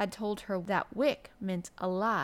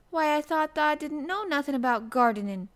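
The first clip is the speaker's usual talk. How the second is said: high, loud burst of surprise; raised, emphatic amazement; astonished exclamation; 7 semitones higher, 6 dB louder than usual. A narrator's reading. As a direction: exclaim it in disbelief.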